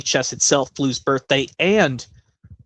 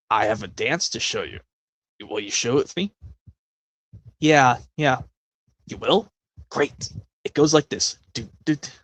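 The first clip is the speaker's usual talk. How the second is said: put-on kids' show host; 3 semitones lower, 4 dB quieter than usual. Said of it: "do an impression from a Blue's Clues episode".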